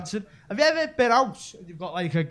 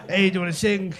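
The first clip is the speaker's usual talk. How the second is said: lightly hammed Mexican accent; put-on Mexican accent for a bar tout; 3 dB louder than usual. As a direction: greet customers in a mock Mexican accent. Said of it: "Let's just stick with Mexican".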